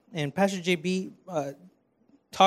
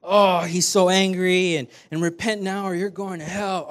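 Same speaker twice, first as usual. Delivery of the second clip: mock angry street preacher; 5 dB louder than usual. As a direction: imitate a ranting street preacher, half-mocking. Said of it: "preach about a God that's always angry".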